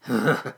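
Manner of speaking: brief huff of breath; short scoffing huff. Acted. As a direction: huff before speaking. Weedle scoffs at finding kitten.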